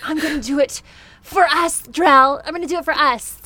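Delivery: determined mock Hilda. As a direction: lightly imitate an earnest, dramatic declaration.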